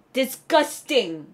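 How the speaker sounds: slow, stretched revulsion; exaggerated distaste; disgusted. Shown as a demonstration. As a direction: drag the word out in disgust. Demonstrates word for disgust.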